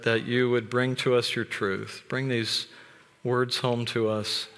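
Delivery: prayer. Acted. Pastor praying over the congregation before preaching, reverent. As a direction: pray it humbly, unhurried.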